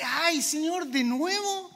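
mild mock grumble at the Lord; whiny complaint. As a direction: moan it like a believer sick of correction. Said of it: "Respondemos con ese".

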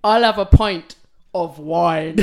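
slow, laughing attempt at Welsh; Welsh accent. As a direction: try a Welsh accent and crack up. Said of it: "I'm not gonna attempt the accent".

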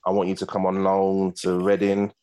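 slow, measured manager impression; Steve Coppell. Manager offering the player a loan move, slow impression. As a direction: make the offer slowly and deliberately. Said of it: "is that how he talks as well?".

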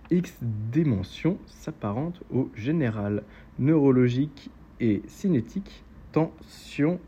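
slow, spaced-out verse; deliberate, weighted poetry recitation; poem reading. Acted. Reads a poem aloud.

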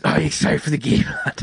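botched impression turned Yorkshire; mock Yorkshire accent. Repeating the trailer dad's line for laughs, mock Yorkshire accent. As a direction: do the dad in a hammed-up Yorkshire accent.

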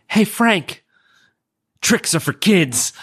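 high, playful shout to an enemy; calling out taunt. Acted. Fighter taunts Frank before throwing a vial, calling out. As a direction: holler it like a catchphrase. Acting out a taunting one-liner in combat.

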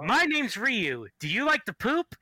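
hammy salesman pitch; pushy mock sales voice; mock ad read. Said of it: "I'm going to do a fucking thing for King's Coast Coffee".

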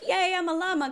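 high-pitched playful cheer; mock glee. Quoting a movie line about false relief, mock glee. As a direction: celebrate in a high voice, at normal volume.

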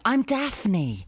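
lightly hammed-up announcement; mock proud declaration. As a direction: declare yourself a TV heroine, tongue in cheek. Mock viewer identifying as Daphne.

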